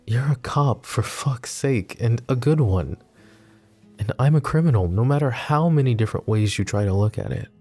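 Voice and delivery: pleading, frustrated reasoning; exasperated protest. Acted. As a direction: argue it with pained exasperation. Arguing the romance cannot last.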